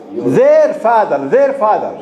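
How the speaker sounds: Their drawn out slowly and hit hard; slow, emphatic Their, repeated for the class; stress on Their. Shown as a demonstration. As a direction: lean long on Their, driving the point home. Teacher drums in the key word.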